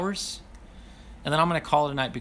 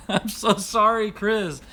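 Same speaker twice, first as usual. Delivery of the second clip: laughing apology; 5 semitones higher, 4 dB louder, slower than usual. Real, not acted.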